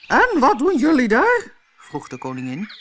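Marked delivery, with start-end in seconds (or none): 0.1-1.5 high, loud, imperious queen's voice; a bossy queen snapping at servants; angry queen. Acted. Queen demands what the gardeners are doing, high, loud and imperious.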